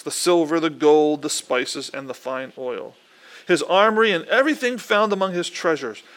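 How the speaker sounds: measured read-aloud from the Bible; plain, deliberate Bible reading; scripture reading. Acted. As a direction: read the passage out evenly to a congregation.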